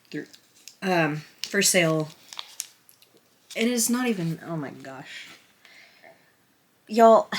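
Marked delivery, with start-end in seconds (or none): 4.5-5.3 much softer, a realising aside; embarrassed mutter; dismayed under breath. Real, not acted. Catches her own mistake. 6.9-7.3 louder and higher, calling to the viewers; a burst of flustered exasperation; flustered loud y'all; exasperated call out. Real, not acted.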